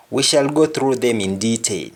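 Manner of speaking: unvoiced whisper; hushed confiding whisper. Real, not acted. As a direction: whisper it like a secret to the class. Whispered aside in lesson.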